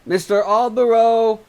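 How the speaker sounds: high, loud cry through the door; woman outside crying his name; calling out. Acted. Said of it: "cried a woman from outside".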